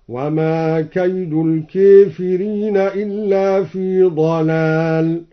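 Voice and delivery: slow recitation, الكافرين said "al-keefireen"; imala on al-kafirin. Shown as a demonstration. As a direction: bend the long a of الكافرين to e. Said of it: "وأمال الكافرين في قوله تعالى".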